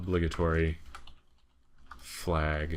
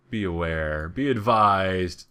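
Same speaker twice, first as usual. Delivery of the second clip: mock warning; 5 dB louder, slower than usual.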